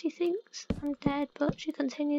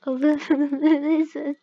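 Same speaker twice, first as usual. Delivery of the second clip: loud; 9 dB louder than usual. Pretend. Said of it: "lizard impression".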